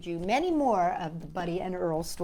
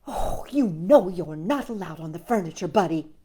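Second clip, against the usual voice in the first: scolded; 2 semitones lower than usual. Acted. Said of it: "she scolded".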